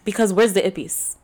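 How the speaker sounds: put-on Spanish accent, playfully asking; mock Spanish accent on the question; fake Spanish accent. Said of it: "can't say it in that accent".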